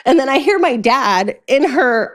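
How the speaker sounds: ordinary talk, nothing marked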